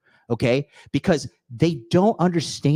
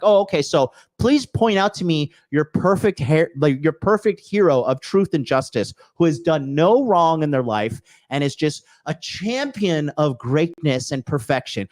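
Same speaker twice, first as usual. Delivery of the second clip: sarcastic mock-polite challenge. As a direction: needle him with fake agreement. Sarcastic retort to hater.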